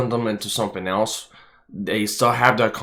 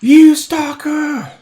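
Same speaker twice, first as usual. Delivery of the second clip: playful accusing; 9 dB louder, much slower than usual. Pretend.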